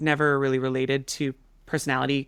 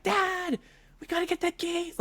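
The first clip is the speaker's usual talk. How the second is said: retold yell; 4 dB quieter than usual. Daughter calling to Dad about the geese, mock frantic yell. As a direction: imitate a frantic call to Dad. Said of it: "I'm yelling at my family".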